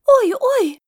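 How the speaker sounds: громкий, очень высокий девчоночий визг; заверещи, как пойманная проказница. A narrator's reading. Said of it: "заверещала девочка". (визгливо, очень высоко)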